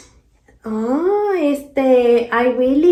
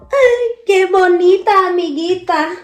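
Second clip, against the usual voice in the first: high, louder playful coo; sing-song greeting; 5 semitones higher, 7 dB louder than usual. Acted.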